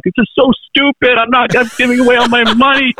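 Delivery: high, whiny mock sob while giving money away; mock crying. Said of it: "I'm, like, crying".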